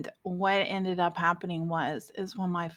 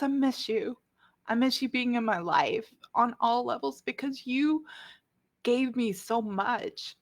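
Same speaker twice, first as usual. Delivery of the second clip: real tearful, halting confession; crying; 3 semitones higher than usual. Real, not acted. To a loved one being forgiven, tearful and emotional. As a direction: push the heartfelt words out through tears, pausing often. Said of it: "Sorry about the crying".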